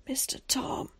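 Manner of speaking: high, whispered plea. A narrator's reading. Boy alone in the dark calls his guardian, whispering. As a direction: call out in a frightened little whisper. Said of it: "he whispered in the darkness".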